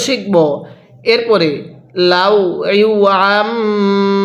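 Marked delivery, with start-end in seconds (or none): 2.1-4.2 Quran recitation. Shown as a demonstration. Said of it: "কিভাবে পড়ব?".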